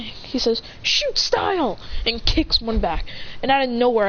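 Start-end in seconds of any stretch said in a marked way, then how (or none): 0.8-1.8 high, drawn-out move name; stretched, pitched-up battle cry; attack call. Acted. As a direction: announce a kick like an anime hero. Acted attack call in story.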